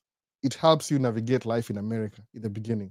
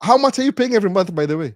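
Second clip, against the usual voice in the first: curious banker; 7 semitones higher, 6 dB louder, faster than usual. Retold or imitated. Banker asking monthly payment.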